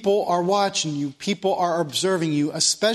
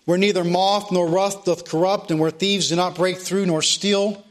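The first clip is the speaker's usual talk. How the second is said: scripture reading; 3 semitones lower than usual. Acted. Preacher reading scripture to his congregation, solemn. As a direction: read the verses to the congregation with weight.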